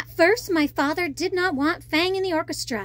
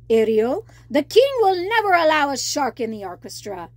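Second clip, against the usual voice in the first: worried crab warning; 5 dB louder than usual. Acted. Crab warns Ariel.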